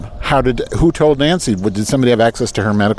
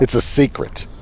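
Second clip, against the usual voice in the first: whispered, as if sharing a secret; mock secret whisper; 3 dB quieter than usual. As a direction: hush it like a conspiracy. Repeats it as a secret.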